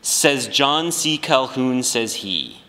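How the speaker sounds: lightly hammed-up Southern accent that sounds off; attempted Southern accent. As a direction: try for a Southern senator and land in Brooklyn. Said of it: "Just pretend you are a".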